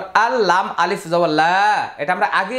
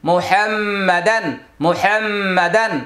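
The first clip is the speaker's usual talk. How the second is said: slow recitation; much slower than usual. Shown as a demonstration. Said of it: "দাল দুই জবর দান".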